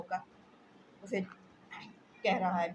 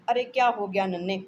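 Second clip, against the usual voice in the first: put-on loud alarmed call to the child; a mother calling out as her child falls; alarmed cry; 10 dB louder than usual. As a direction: cry out in panic.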